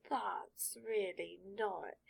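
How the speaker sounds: slow, exasperated hat; sorting hat voice. Acted. Sorting hat tries to interrupt Draco's rambling, slow and exasperated. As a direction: try to cut in, trailing off.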